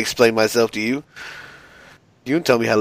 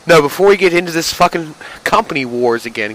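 ordinary talk, nothing marked

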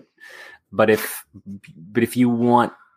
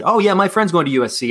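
mock excited friend; 9 semitones higher, 3 dB louder, faster than usual. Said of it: "they said".

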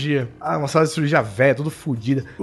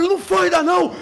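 higher nurse voice; 13 semitones higher than usual. Retold or imitated. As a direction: cut in as the other nurse, pitched up. The other nurse speaks. (enfermeira interrompendo a colega, voz aguda)

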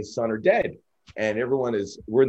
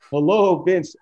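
nervous greeting; 8 semitones higher, 7 dB louder, slower than usual. Retold or imitated. Nervous greeting to intimidating boss.

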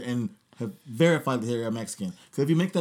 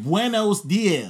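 slow plain greeting; 3 semitones higher, much slower than usual. Shown as a demonstration. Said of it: "what you wanna do is just like".

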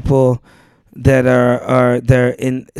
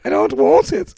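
mock British; 14 semitones higher, 4 dB louder than usual. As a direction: put on a high-pitched British child's refusal. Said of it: "it'd be hard for me to be like".

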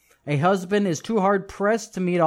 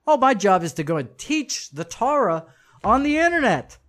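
smug internet teacher; 5 semitones higher than usual. Retold or imitated. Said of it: "internet teachers out there who don't have jobs".

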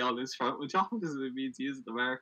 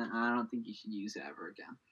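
whisper; 5 semitones lower, 7 dB quieter than usual. Real, not acted. Mock disgust at creepy word.

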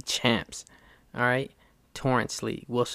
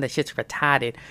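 put-on Boston accent. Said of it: "started pushing his accent out".

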